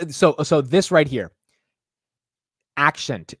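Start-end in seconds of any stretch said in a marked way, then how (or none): 2.7-3.3 "Accent" said as "ak-shent". Shown as a demonstration. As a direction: say "Accent" with a sh sound, like "action" plus t. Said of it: "I can't say the sh part".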